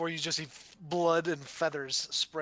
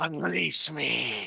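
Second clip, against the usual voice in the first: gruff, rough, creaky rasping voice. Voicing what the voice in Thorin's head says, when asked: voice in Thorin's head. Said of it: "I need you to do the voice".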